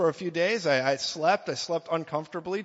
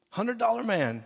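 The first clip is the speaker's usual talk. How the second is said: playful higher repeat; 7 semitones higher than usual. Acted. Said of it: "I was a hundred dollar man".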